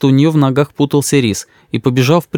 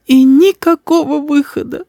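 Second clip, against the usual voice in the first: мама сквозь слёзы, высоко; плачущая мама жалуется, медленно; всхлипывая. A narrator's reading. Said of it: "всхлипывала мама". (всхлипывая, высоким голосом)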